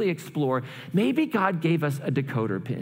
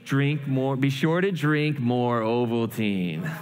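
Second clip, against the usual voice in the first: slow deciphering; 2 semitones lower, slower than usual. Acted. Boy decoding the secret message, reading slowly. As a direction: let the message sink as you decode it.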